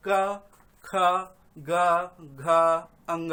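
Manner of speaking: क, ख, ग, घ, अंग one by one with pauses; व्यंजनों का उच्चारण. Shown as a demonstration. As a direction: recite क, ख, ग, घ, अंग as separate syllables. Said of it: "जब आप बोलते हैं तो क बोलते हैं". (क, ख, ग, घ, अंग रुक-रुक कर, अलग-अलग)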